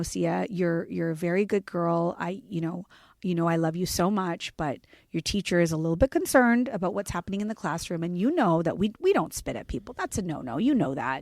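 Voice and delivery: put-on soft, gentle talk to a small child; a hint of a soft-spoken mom. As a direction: calmly remind her of the rules. Mother talking gently to daughter.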